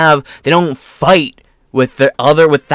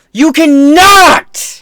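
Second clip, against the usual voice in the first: "You cannot!" yelled much higher and louder, slowly; real yell; 13 semitones higher, 7 dB louder, much slower than usual. Real, not acted. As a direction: explode at them in real anger. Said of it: "Sorry for yelling".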